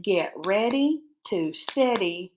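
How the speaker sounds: slow, word groups set apart by pauses; slow dictation. Shown as a demonstration. Teacher dictating a sentence to pupils, slow dictation. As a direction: dictate it slowly for writing down. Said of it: "the sentence I want to start with".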